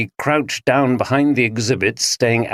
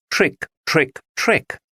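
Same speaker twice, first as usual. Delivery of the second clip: trick rising higher each time; rising echoing word; 5 semitones higher, slower than usual. A narrator's reading. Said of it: "resonated louder and louder".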